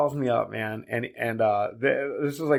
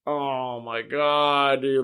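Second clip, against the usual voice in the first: slow, drawn-out mock dismay; understated exhausted exasperation; weary disbelief; much slower than usual. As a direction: stretch it out like a tired worker. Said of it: "I'm tired".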